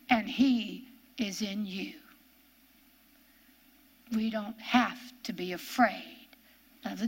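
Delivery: slow, hushed reassurance; whisper. Acted. Preacher assuring the congregation of Jesus within, whispered. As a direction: whisper it like a secret.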